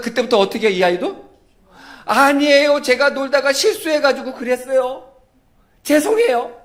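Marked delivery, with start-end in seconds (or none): 2.0-6.6 put-on higher, louder little-kid voice saying sorry; meek child apology. Child owns up to his friend's mother, sheepish and sorry. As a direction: plead like a scolded child.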